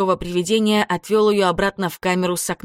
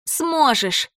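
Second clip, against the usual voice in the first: put-on ghost girl; 7 semitones higher than usual. A narrator's reading. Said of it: "сказала Мара".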